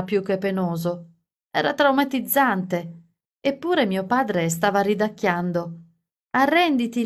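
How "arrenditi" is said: yell. A narrator's reading. Father teasing Larry in the trunk, mock yell. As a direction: shout it playfully at Larry. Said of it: "urlò".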